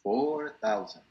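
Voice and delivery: "four thousand", slowly with "four" drawn out; slow teaching demonstration. Shown as a demonstration. Teacher answering a student's number question, slow and deliberate. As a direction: stretch "four", then let "thousand" fall. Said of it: "cuatro mil quinientos es".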